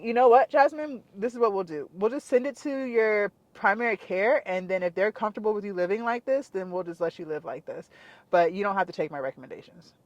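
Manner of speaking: imitating a politely dismissive doctor; nice-nasty matter-of-fact. Doctor brushes off his patient, matter-of-fact. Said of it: "like, matter of fact".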